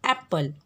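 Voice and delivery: एप्पल with a clear open ए at the start; sound it out. Shown as a demonstration. Teacher sounding out a word for the class. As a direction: stretch the first sound of एप्पल. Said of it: "अ आ ई ई".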